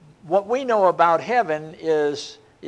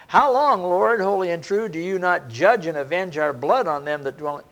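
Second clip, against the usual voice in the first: a raised plea to heaven; crying out; 3 dB louder than usual. Acted. Martyrs crying out to God for vengeance, raised.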